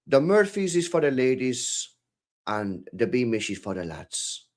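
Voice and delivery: badly faked Cork accent; amateur Irish pub impression. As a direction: play an Irish barman, accent all wrong. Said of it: "It's just a terrible accent".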